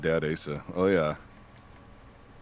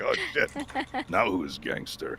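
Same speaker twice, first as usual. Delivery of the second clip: mock shock; 3 semitones higher, 7 dB quieter than usual. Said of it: "I'm like".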